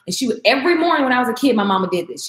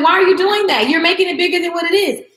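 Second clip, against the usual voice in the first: scolding herself; 7 semitones higher, 3 dB louder than usual. Retold or imitated. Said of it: "And then I said".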